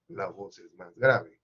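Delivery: demonstrating a deep grave voice. Shown as a demonstration. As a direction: drop the voice low and slow to show a deep voice. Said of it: "cuando las cuerdas son más gruesas".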